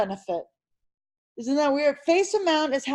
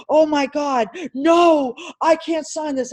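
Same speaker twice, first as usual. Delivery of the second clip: imitating a panicked client, sudden loud no; mock freak-out with a shouted no; retold panic; 3 semitones higher, 4 dB louder, slower than usual. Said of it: "She freaked out on me".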